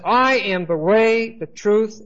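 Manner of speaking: "I" and "way" drawn out and hit loud; slow, weighty stress on "I am the way"; very emphatic. Acted. Preacher quoting Jesus on the only entry to God, very emphatic. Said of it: "very emphatic".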